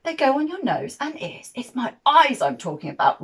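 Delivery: loud, indignant giant roar. Acted. Giant roaring at Jim over glasses, fist banging. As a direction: bellow it across the table. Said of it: "roared the giant".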